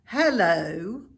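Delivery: a lightly voiced old ewe; drawn-out sheep greeting. A narrator's reading. Old sheep greets Wilbur, lightly voiced and drawn out.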